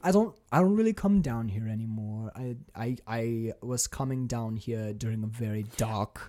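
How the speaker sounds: light mock German accent; a vampire with a German accent. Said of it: "I love how you're doing, like, a German accent".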